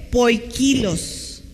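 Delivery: "poikilos" said slowly, stress on KI; acento en la segunda I. Shown as a demonstration. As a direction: stretch "poikilos" out, leaning on the second i. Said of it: "lleva acento en la segunda I". ("poikilos" lento, con acento en la segunda i)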